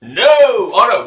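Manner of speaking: high, loud, stretched wail of protest; alarmed cry. Real, not acted. Player seeing a bad die roll, alarmed cry.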